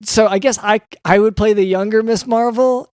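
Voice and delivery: flustered, restarting as the plan slips away; panicking. Pretend. Doctor fearing for his twenty-year plan, mildly panicked. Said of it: "you're, you're panicking".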